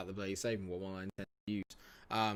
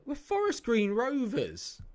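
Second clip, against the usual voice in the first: indignant protest; 13 semitones higher, 6 dB louder, slower than usual. Real, not acted. Indignant at opponents.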